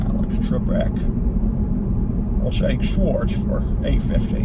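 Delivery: very slow, slurred-S game show contestant; Sean Connery. Acted. Contestant picking a category from Alex Trebek, Connery parody. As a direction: stretch it out in a parody Scottish voice. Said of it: "more of the impersonation I would do".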